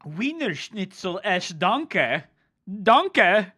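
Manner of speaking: high, loud, hammed-up German accent; mock German accent. Streamer clowning with food words, mock German accent. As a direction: stretch it out in cartoon German.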